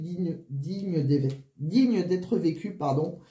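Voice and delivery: short of breath, flu-weakened voice; breathless, struggling for air. Real, not acted. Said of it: "je suis essoufflée avec ma grippe". (essoufflée, voix grippée)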